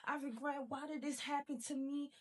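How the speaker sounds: lightly hammed-up victim voice; mock regretful whine. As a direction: mimic a self-pitying sigh of regret. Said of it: "you just walking around like".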